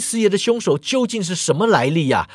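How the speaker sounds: calling out loudly on purpose so others hear; deliberately loud. Acted. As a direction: raise the voice a bit, meant to be overheard. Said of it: "郑瑶故意大声喧哗呀".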